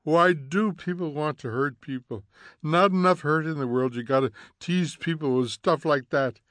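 high, loud indignant scolding. Acted. Mrs. Bowles scorns the poem's hurtful words, high and indignant. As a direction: sneer at the poem. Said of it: "said Missus Bowles".

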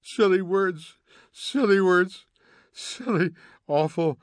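high, loud indignant scolding. Acted. Mrs. Bowles scorns the poem's hurtful words, high and indignant. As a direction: sneer at the poem. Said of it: "said Missus Bowles".

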